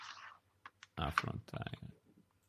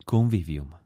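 radio voice; 5 semitones lower, much slower than usual. Acted. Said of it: "Ti è piaciuta la voce? ... Così un po' radiofonica".

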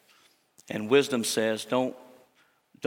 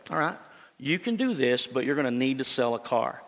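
calm reassurance. Retold or imitated. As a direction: gently talk a worried client through it. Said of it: "she very calmly said".

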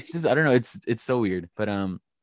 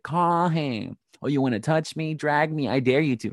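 heated dare; 6 semitones higher than usual. Retold or imitated. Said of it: "she's like".

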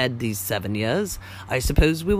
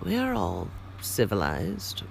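soft, slow and low, unruffled; calm him with easy assurance; placid; 4 semitones lower, 5 dB quieter than usual. Acted. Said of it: "replied Holmes placidly".

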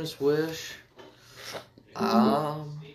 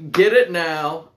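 louder hard sell push; pushy salesman; 2 semitones higher, 6 dB louder, slower than usual. Acted. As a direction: close the deal. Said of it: "This guy sounds like a fucking salesman".

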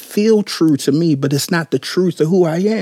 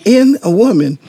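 "In a woman" said as if in quotes, stress on "In"; air quotes; 4 semitones higher than usual. Shown as a demonstration. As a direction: mark "In a woman" as a quoted phrase. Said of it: "I'm holding up quotes for some reason".

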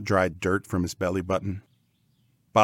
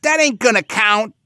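high, loud slangy pig; loud cartoon pig with sloppy grammar; retorting pig; 9 dB louder than usual. A narrator's reading. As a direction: squeal the comeback like a pig bro. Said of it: "Bob Red retorted".

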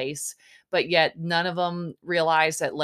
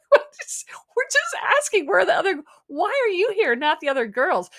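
mocking impression; 11 semitones higher, 6 dB louder, faster than usual. Mocking guys' pestering questions.

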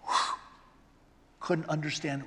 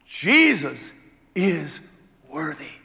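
heavenly shout; 3 semitones lower, 7 dB louder, slower than usual. Acted. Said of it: "And heaven shouts".

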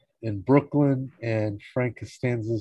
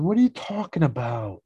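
pitched-up, incredulous retort; mock incredulous; 8 semitones higher than usual. George to Kramer about the wheelchair, incredulous. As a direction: act out a baffled comeback.

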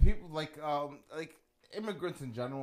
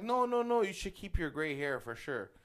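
women cooing; 4 semitones higher than usual. Retold or imitated. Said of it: "They're like, all like".

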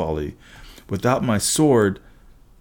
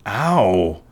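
muttered ow. Acted. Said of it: "He muttered".

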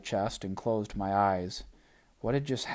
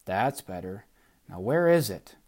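put-on Gum Baby voice; 4 dB louder than usual.

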